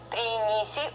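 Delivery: принеси with all three syllables palatalized; very soft syllables. Shown as a demonstration. Teacher shows all of them very soft, soft pronunciation. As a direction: draw out принеси, softening each consonant. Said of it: "all of them very soft".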